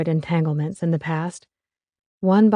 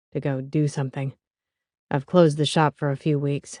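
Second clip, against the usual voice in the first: lower, calm male voice; a lightly voiced young man; man's voice; 3 semitones lower than usual. Pat speaks.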